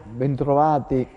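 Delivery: through a face mask. Real, not acted. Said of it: "Sempre con la mascherina".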